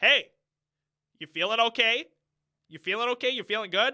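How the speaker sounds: loud, flat, toneless monotone with no inflection. Mocking an actor speaking to his daughter: imitating a flat toneless voice. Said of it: "there's no, like, toning to his voice".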